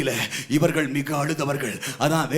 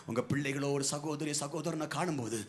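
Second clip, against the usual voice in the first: much softer, lower intimate sermon; hushed preaching; 4 semitones lower, 8 dB quieter than usual. Acted. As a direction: drop to a soft, close voice. (மென்மையான தாழ்ந்த குரல் பிரசங்கம்)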